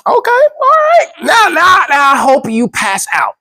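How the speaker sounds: high shrill frantic wife voice; frantic, on the edge of fainting; panicked wife. Retold or imitated.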